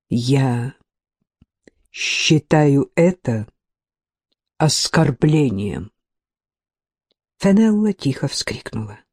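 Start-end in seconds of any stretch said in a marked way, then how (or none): 0.1-5.9 slow and level, each word weighed; even, slow. A narrator's reading. Sir Nicholas calmly answers the angry lord, slow and even. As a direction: deliver the insult slowly and evenly. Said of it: "ровным голосом медленно произнёс".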